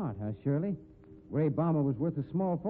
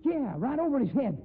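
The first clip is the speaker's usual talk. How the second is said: excited; 8 semitones higher than usual. Acted. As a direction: cheer the throw on as it lands. Excited watching the rope throw.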